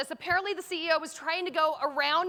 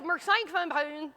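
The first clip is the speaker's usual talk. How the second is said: garbled, mumbled gibberish; unintelligible announcer; slower than usual. Retold or imitated. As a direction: imitate a voice you can't make out. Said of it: "The twelve-year-old says".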